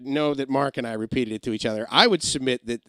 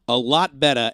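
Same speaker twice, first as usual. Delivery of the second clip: Boston accent; 3 dB louder than usual. Shown as a demonstration. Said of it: "for Boston".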